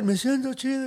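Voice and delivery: high, mock-dreamy echo of the line; giddy repeat. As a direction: raise the voice like a smitten friend.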